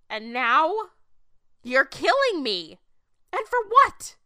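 rising anger. Acted. Woman raging at God for killing her. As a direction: let the anger break loose.

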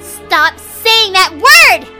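high, loud and slow; shrill scolding demon. Acted. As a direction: scold like an outraged brat.

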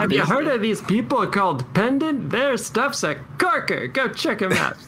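put-on voice. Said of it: "what voice was that?".

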